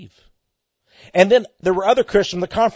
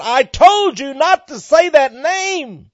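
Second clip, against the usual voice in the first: slow, higher mock scream; a hammed-up raised cry, not full volume; retold scream; 9 semitones higher, 4 dB louder, slower than usual. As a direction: cry out as the possessed woman. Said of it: "she began to scream out".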